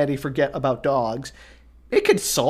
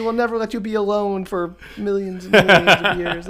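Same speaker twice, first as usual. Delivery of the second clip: lightly voiced, higher, gushing dog chorus; a hint of sweet adoring pups; 5 semitones higher than usual. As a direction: gush at Sirius as a devoted little dog. Voicing adoring dogs to Sirius.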